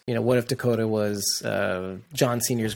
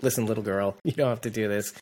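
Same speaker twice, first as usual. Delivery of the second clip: a touch of John's quiet plea; soft retold plea; 3 semitones lower, 6 dB quieter than usual. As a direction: lower and softer, gently imitating. Retelling John's gentle line.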